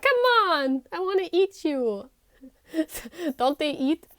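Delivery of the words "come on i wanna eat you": hungry predator. Acted. Voicing a hungry animal.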